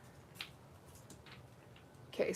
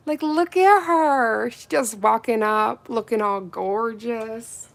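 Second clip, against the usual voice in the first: excited; 8 dB louder than usual. Real, not acted. Gushing about purple.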